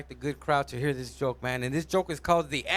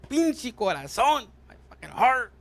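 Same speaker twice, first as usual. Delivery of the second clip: higher, stretched-out mock anguish; anguished lament; 6 semitones higher than usual. Lovesick person blaming the heart, anguished.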